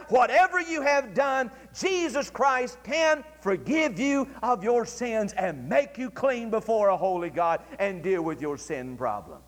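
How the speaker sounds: usual speaking voice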